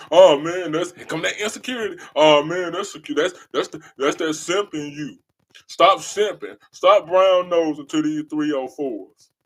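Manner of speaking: loud mock jeering dude; mocking other men. Mocking men who call loving women simping, loud jeer. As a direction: jeer like the guys online.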